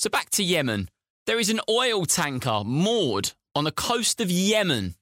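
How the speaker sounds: "Yemen" set apart and weighted at each phrase end; emphasis on Yemen. Real, not acted. Presenter returning to the oil tanker story, emphasis on Yemen. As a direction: lean hard on the word "Yemen". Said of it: "really emphasizing the word Yemen".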